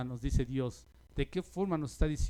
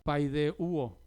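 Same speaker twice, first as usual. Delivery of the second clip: paideuo with the accent on the U; stress on the U. Shown as a demonstration. Preacher teaching congregation a Greek word, paideuo stressed on U. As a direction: lean on the U in paideuo. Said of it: "con acento en la U".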